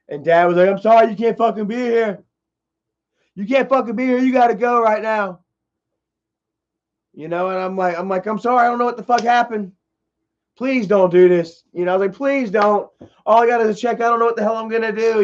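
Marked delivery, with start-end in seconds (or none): 0.7-5.4 higher-pitched, firm imitation of dad; retold stern refusal. Dad's angry rejection retold. 8.2-15.2 higher-pitched begging, reenacted; retold pleading.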